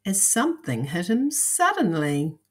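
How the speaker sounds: put-on lively, measured storytelling to young listeners; lilting picture-book narration; children's story reading. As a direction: read it aloud like a picture book.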